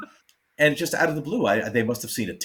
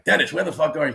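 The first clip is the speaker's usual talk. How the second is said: loud mock shout, pitched up; retold yell; 6 semitones higher, 5 dB louder, faster than usual. George Carlin yelling for Dennis from backstage, mock loud shout. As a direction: yell across the backstage hall, imitating George.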